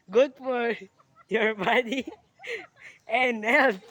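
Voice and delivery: a kid playing a product announcer; mock ad pitch. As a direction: sell it like a TV commercial. Pitching malunggay like an ad.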